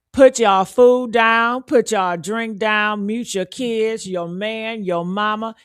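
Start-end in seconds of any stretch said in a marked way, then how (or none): 0.1-4.0 commanding. Real, not acted. Commanding viewers to stop everything.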